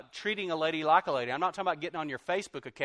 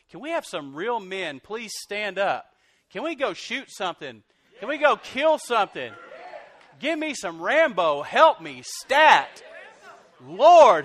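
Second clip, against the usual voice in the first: higher, louder, hammed-up macho rallying cry; mock macho outburst; 6 semitones higher, 12 dB louder than usual. Preacher mocking weak men, rising to a hammed-up shout. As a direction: build to a comic shout for real men. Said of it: "I'm just like".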